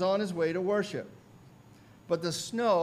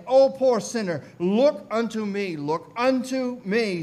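raised, pleading pulpit call; imitated preacher's urgent appeal; impassioned preacher; 2 semitones higher, 5 dB louder than usual. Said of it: "He went on".

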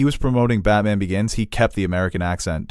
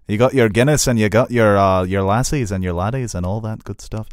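playful mock Irish brogue; 4 dB louder than usual. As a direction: put on a jokey Irish accent. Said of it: "talking in their Irish brogue".

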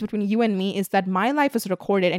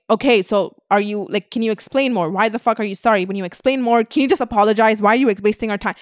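mock annoyed critic. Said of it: "you're like".

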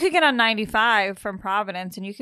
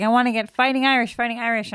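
eager dad; 4 semitones higher, 5 dB louder, faster than usual. Retold or imitated. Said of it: "He's like".

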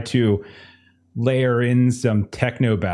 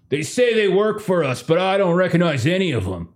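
somewhat higher-pitched, doubtful report; suspicious armed crewman; 5 semitones higher than usual. Acted. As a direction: play a gunman unsure of these strangers. Lawrence answers Tex.

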